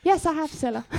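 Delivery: timid quiet voice. Acted. The contestant Susan's voice.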